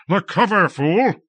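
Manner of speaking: shouted high and harsh at a fool; harsh angry cry. A narrator's reading. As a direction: bark the order in anger. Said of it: "in a voice harsh with anger".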